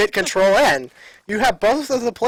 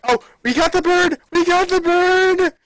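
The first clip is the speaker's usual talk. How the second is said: high, joyful cheer; excited; 12 semitones higher, 4 dB louder than usual. Real, not acted. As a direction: cheer in delight. Joy finding the bird.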